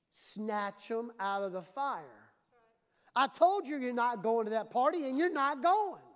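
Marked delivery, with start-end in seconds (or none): 3.2-6.0 stern parent. Acted. Parent forbidding child a party.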